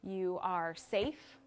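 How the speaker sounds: "You are safe" drawn out very slowly, each word soothing; slow reassuring mantra. Shown as a demonstration. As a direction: say it slowly, like calming a frightened friend. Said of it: "it could be anything from".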